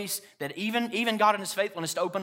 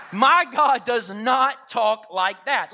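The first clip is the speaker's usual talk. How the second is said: high, loud, slow preacher's shout; forceful proclamation; 5 semitones higher, 6 dB louder, much slower than usual. Retold or imitated. Preacher answering the lie of fear, loud and defiant. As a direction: thunder it out, hitting each word.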